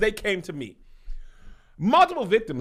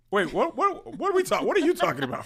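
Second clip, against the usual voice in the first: panicked disbelief; 9 semitones higher, faster than usual. Acted. Acted shock at biter.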